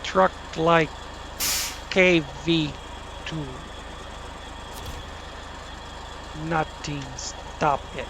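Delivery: hammy fake Russian accent with rolled Russian; mock Russian accent, self-aware and silly; bad Russian accent. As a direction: boast about the truck in a deliberately bad Russian accent. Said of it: "That's horrible Russian accent".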